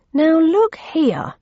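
high, slow, loud outburst; slow rising anger; angry warning. A narrator's reading. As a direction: plant your feet and warn him off. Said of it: "growing angrier by the second".

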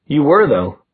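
mildly reproachful comeback; accusing. Acted. Accusation in quarrel.

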